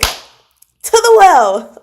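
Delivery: high, loud, drawn-out "To the well"; excited shouted meme line; loud dramatic catchphrase. Real, not acted. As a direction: belt it out slowly like a verdict. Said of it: "sorry if that was really loud".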